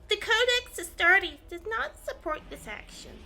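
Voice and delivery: high, otherworldly commander's proclamation; Guilliman voice. Acted. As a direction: announce it like a stern robotic primarch. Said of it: "I'm the voice of Guilliman".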